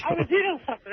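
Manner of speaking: talking around a bite of food; mumbled through a full mouth. Real, not acted. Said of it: "That's why my mouth was full".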